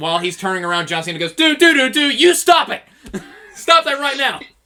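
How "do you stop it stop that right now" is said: very high, raised yelling. Imagining him turning around as someone yells from behind, act it out, imitating John Cena yelling. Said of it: "him yelling at someone".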